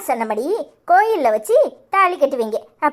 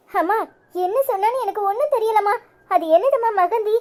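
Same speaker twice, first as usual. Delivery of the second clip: confused pleading; 5 semitones higher than usual. Acted. Bride's mother pleads, confused.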